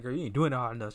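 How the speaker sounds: a hint of a pushy old woman; bossy urging. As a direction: egg him on, half laughing. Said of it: "she was like".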